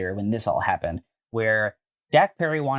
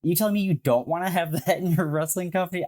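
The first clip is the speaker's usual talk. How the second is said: gleeful disbelief; 7 semitones higher than usual. Real, not acted. Gleeful rant about biting.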